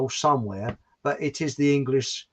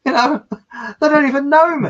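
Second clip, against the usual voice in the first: indignant outburst; 9 semitones higher, 8 dB louder than usual. Retold or imitated. Retelling own indignant thought.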